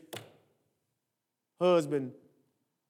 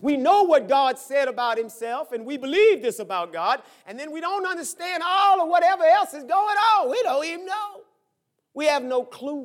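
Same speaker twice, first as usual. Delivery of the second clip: raised, louder preacher's cry; full-force preaching; 6 semitones higher, 7 dB louder than usual. Real, not acted. Preacher to congregation on not understanding God, preaching at full force. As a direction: preach it high and loud, climbing.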